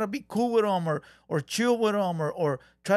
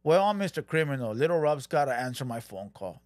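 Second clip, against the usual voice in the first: lower, smug entitled voice; mocking Criminal; 6 semitones lower than usual. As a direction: play a puffed-up big shot. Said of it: "you sound entitled".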